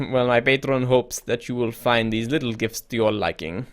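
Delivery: put-on creepy emissary, lightly French-accented. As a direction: give a hint of French to a shady go-between. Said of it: "I don't know why I made him French".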